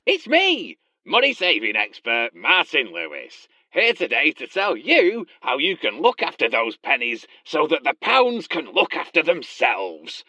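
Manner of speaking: lightly voiced fake financial expert; hammy impostor playing Martin Lewis. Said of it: "you are obviously not Martin Lewis".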